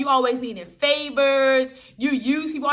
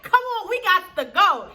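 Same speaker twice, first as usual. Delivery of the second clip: higher, drawn-out Philly accent, played for laughs; put-on Philly accent; 6 semitones higher than usual. Retelling Kelly urging friends to leave, mock Philly accent. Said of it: "She lost the accent".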